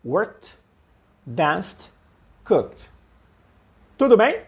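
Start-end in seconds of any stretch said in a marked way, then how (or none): 0.1-2.9 "Worked" "Danced" "Cooked" each one quick syllable ending in T; ed as a T sound. Shown as a demonstration. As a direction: snap each word short with a final T. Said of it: "Vamos de novo?". (pronúncia rápida com som de T no final)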